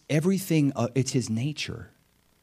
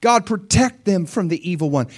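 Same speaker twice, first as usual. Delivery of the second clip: high, loud, drawn-out plea; impassioned acted prayer, raised voice; crying out in prayer; 10 semitones higher, 6 dB louder than usual. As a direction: plead upward to God, stretching the key words. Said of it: "crying out".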